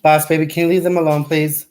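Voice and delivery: quick, firm telling-off of the dog; fast firm scold. Real, not acted. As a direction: make the dog back off. Telling dog to leave things.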